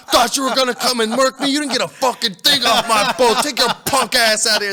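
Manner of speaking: high, loud triumphant trash talk; going in on them. Retold or imitated. Gamer re-enacting rant at beaten rivals, loud high taunting. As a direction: yell a gloating taunt. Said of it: "I'm going in on 'em".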